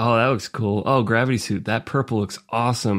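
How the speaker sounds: normal talking voice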